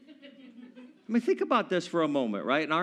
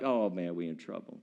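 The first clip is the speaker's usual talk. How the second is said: mock worry; 12 semitones lower, 9 dB quieter than usual. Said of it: "looking around being like".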